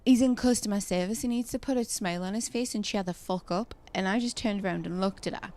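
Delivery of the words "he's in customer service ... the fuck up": louder, pointed mock of the woman; imitating rude customer. Imitating the customer sneering about a shop worker. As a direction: throw it at the back of his head. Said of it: "at this point and goes".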